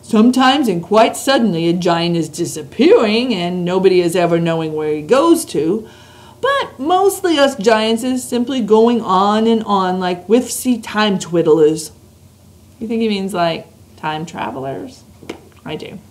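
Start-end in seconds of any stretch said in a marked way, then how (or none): 0.0-11.9 BFG giant voice. Acted. Reads the BFG's lines.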